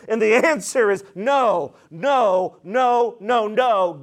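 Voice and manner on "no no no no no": NO repeated with firm separate beats; insistent string of NO, quickening at the end; emphatic no. Shown as a demonstration. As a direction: land each NO as its own firm denial. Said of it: "This isn't just a passive no".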